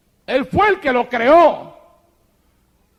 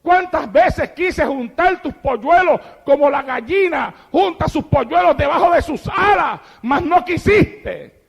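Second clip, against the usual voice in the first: loud, higher pleading lament from the pulpit; lamenting cry; 6 semitones higher, 5 dB louder than usual. Acted. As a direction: cry out over Jerusalén in grief. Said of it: "lloraba y decía". (lamento a gritos)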